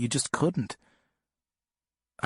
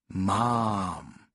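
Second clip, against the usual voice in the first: put-on baby talk; 4 semitones lower than usual. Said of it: "like someone trying to get a baby to talk".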